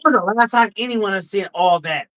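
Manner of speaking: shouted retort; shouting. Real, not acted. Heated retort, shout heard.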